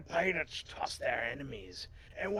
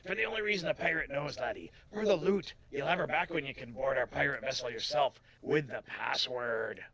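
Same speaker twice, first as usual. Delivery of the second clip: lightly voiced pirate making demands; a hint of sea-dog swagger; pirate kidnapper; 3 semitones higher, 5 dB louder than usual. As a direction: state the ransom like a pirate.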